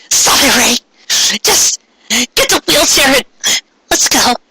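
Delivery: high, sharp slow command; curt anger. Acted. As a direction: cut her off and order her, fed up. Ami cuts Rei off angrily.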